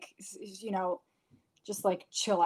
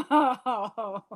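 a playful mock-villain cackle, higher and louder; evil laugh; 4 semitones higher, 5 dB louder than usual. Real, not acted. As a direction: cackle like a cartoon villain, half joking. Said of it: "It's an evil laugh".

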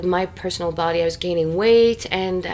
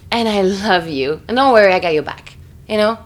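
loving reassurance; 8 dB louder than usual. Retold or imitated. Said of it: "My soulmate would grab my face and say".

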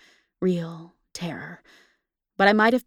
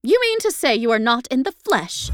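higher, louder shocked gasp; frightened woman questions the ghost, gasping; 6 semitones higher, 8 dB louder than usual. A narrator's reading. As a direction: gasp it out in alarm. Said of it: "I gasped".

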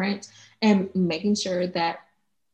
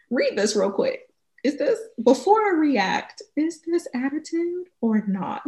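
checking first; 7 semitones higher than usual. Acted. Acting out checking with a friend.

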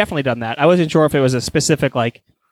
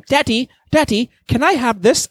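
higher, whiny mock child; imitating a kid; 8 semitones higher than usual. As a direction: mimic a kid begging daddy. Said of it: "And I just go".

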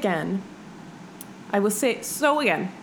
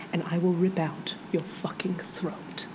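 menacing reading. Acted. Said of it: "Do you want me to read it with an accent?".

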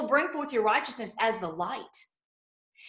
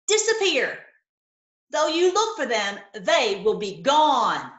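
rising excitement; 5 dB louder than usual. Real, not acted. Preacher rejoices reading scripture.

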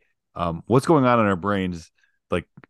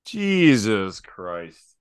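passing by doppler; much slower than usual. Shown as a demonstration. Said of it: "I gotta try one".

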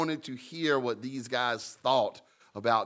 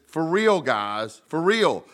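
louder and higher, pressing the point; insistent; 4 semitones higher, 5 dB louder, slower than usual. Retold or imitated. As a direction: hammer it home, for real. Preacher voices Jesus insisting.

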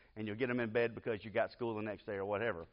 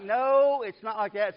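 much higher and louder, firm no; arguing back; 10 semitones higher, 11 dB louder, slower than usual. Retold or imitated. Father arguing with young daughter over Bible story, loud. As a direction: insist she has it wrong. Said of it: "And I'm like".

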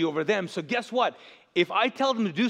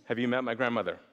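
offended listener; 7 semitones lower, 4 dB quieter, faster than usual. Retold or imitated. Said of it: "you're like".

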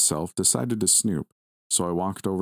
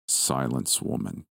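warning; 5 semitones lower, slower than usual. Acted. Lucifer to the grandmother, low menacing warning. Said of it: "Lucifer warned".

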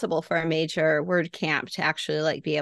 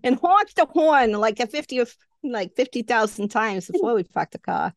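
put-on higher-pitched, playful Boston accent; mock Boston accent; 5 semitones higher than usual. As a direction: drop the R's like a Bostonian. Continues the Boston accent joke.

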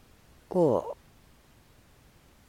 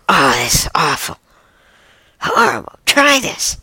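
disgusted raccoon; 2 semitones higher, 3 dB louder than usual. Acted. Raccoon going on about awful food, disgusted and urging. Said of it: "the other guy's going on".

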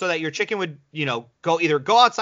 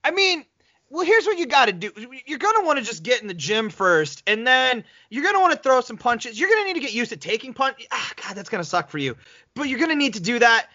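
higher, breezy know-it-all coaching; mock coach voice; 4 semitones higher than usual. Friend giving hopeless boxing advice, breezy mock coach. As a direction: play the clueless coach hyping a hopeless boxer. Mocking advice to novice boxer.

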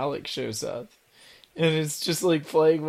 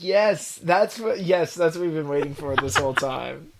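excited reaction. Retold or imitated. Viewer recalling the cliff scene to cohosts, excited. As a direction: re-enact finally getting what you wanted.

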